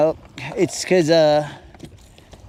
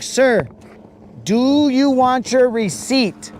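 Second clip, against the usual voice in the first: higher, slow, impatient clerk; a fed-up cashier at the register; annoyed cashier voice; 4 semitones higher, slower than usual. Retold or imitated. Cashier addressing Nizook.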